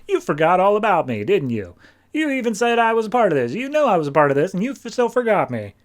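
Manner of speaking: high, fast, loud indignant scolding; indignant rant. Acted. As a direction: rant at him like a slighted villain. Felix Faust scolds Constantine.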